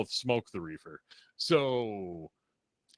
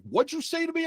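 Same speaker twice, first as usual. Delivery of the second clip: much higher, louder indignant demand; affronted challenge; 5 dB louder than usual. Retold or imitated. Investigator answering the teen's insult, affronted. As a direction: imitate an outraged officer's challenge.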